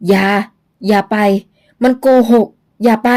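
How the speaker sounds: a hoarse ghost's warning; ghostly warning. Acted. Old ghost warns Luang not to go, hoarse. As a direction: warn them off, rasping.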